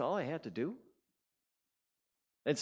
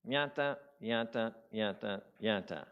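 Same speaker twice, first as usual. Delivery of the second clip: nagging chatter; 2 semitones lower than usual. Acted. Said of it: "guess what starts happening?".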